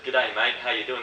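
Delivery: put-on easygoing Australian accent greeting; casual Aussie accent. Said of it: "a great Australian accent".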